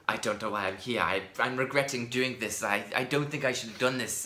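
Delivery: put-on vague old world European accent; lightly put-on old world accent. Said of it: "Miscellaneous old world accents".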